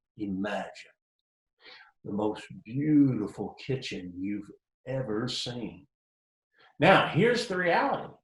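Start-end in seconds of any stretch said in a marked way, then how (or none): 0.2-5.9 very deep, soft radio announcer voice. Explaining an advantage of radio by mimicking an ad announcer, deep announcer voice. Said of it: "the announcer comes on in one of those deep voices and says".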